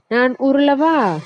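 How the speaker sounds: high playful cartoon voice; a bright eager offer; radish's voice. Radish offers to roll for the boy, playful high voice. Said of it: "முள்ளங்கி".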